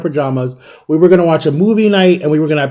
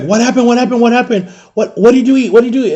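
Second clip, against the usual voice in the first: higher, urgent repeated questions; frantic mother; 6 semitones higher than usual. Retold or imitated. Friend's mother runs in asking what happened, imitated frantic. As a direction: imitate a panicked mom firing off questions.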